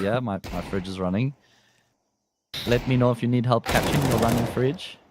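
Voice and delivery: prank-call patter in a mock German accent. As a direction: slip into a light German accent. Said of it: "I did the German accent".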